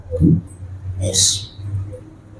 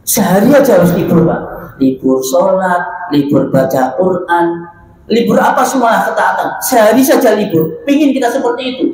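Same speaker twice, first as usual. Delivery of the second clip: animated wish; 4 semitones higher than usual. Retold or imitated. Voicing the wish for a day off.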